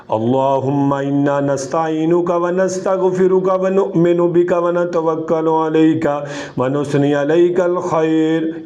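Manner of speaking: even, devout recitation of the qunut; prayer recitation. Shown as a demonstration. Qari showing the witr qunut to students, devout recitation. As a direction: recite the supplication steadily.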